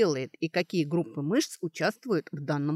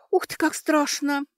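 high, louder scared exclamation; gasped awe; 9 semitones higher, 5 dB louder than usual. A narrator's reading. Girl hearing about a dream, gasping in alarm. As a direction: gasp it out, impressed and frightened. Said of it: "ахнула Кэтрия".

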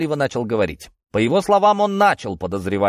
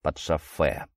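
mocking mimicry; 8 semitones lower, 6 dB quieter, slower than usual. A narrator's reading. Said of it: "передразнил я".

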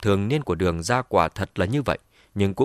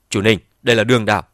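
angry outburst; 6 dB louder, faster than usual. Acted. Outburst, cannot hold back.

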